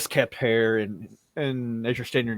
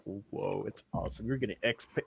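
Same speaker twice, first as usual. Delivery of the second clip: much softer, lower whoa; hushed goblin awe; 4 semitones lower, 10 dB quieter than usual. Acted. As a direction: goblin boy marvelling under his breath. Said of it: "The goblin boy is like".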